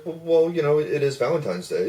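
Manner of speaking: high mock stammer, settling down; flustered reply. Caller explaining himself to hostess, acted flustered reply. Acts out flustered answer to her.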